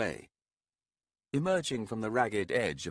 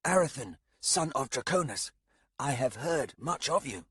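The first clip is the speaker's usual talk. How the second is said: polite youth voice; 5 semitones higher than usual. Acted. Dog runner greets him.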